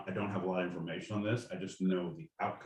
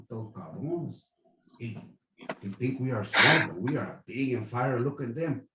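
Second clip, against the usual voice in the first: mock Mexican soldier; 2 semitones higher, 4 dB louder than usual.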